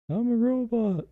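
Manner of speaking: robot voice. Pretend. Reading captcha text aloud.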